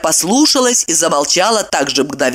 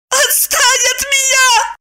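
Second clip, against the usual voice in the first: much higher, slow crying shriek; slower than usual. A narrator's reading. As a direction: scream it through tears. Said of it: "взвизгнула Майя".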